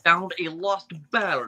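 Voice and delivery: slow, lightly voiced pirate villain; Davy Jones. Player practising a pirate villain on command, slow impression. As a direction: try out a drawn-out sea-captain impression. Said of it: "channel my Davy Jones a little".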